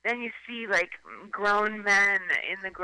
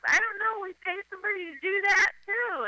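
mock entitled rich person; 12 semitones higher than usual. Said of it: "it's like".

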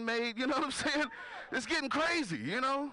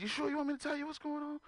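teasing; 9 semitones higher, 4 dB quieter than usual. Retold or imitated. Teasing therapist.

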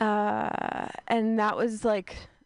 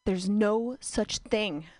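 shouted punchline; slower than usual. Acted. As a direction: build up, then yell the last words. Punchline yelled.

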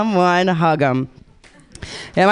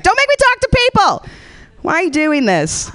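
mock whiny dog; 10 semitones higher than usual. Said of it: "It's like".

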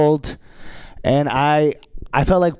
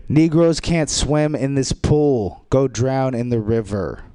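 slow, deliberate sign reading; 2 semitones lower, slower than usual. Retold or imitated. Reading the pool sign aloud, slow and deliberate. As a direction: read it like a posted notice. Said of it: "the sign on the whites only pool".

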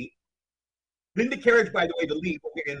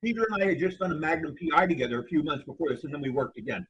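talking through a mouthful of cashews; chewing while talking; mouth full. Real, not acted. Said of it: "Excuse me, I'm talking with my mouth full".

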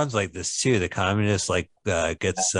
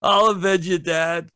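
overacted death scene; 6 semitones higher than usual. Son's vow in the movie.

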